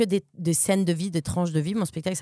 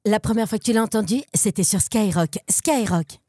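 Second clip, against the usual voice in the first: Skyrock jingle voice. Shown as a demonstration. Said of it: "Vas-y, fais-nous un petit Skyrock".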